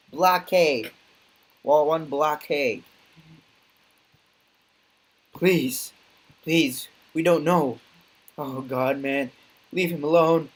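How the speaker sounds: hammed-up desperate plea; mock pleading. Bar patrons pleading.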